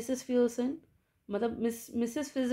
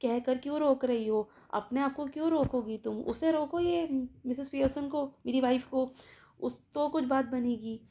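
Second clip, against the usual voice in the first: bewildered. Retold or imitated. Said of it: "वो कहता है हक्का पक्का कि".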